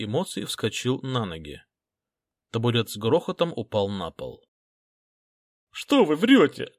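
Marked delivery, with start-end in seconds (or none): 5.7-6.7 trembling, whiny cry, louder, higher and slow; a frightened boy close to tears yelling back; tearful shout. A narrator's reading. Schoolboy accused of murder crying out, tearful and shaking. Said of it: "дрожащим и плаксивым голосом крикнул он".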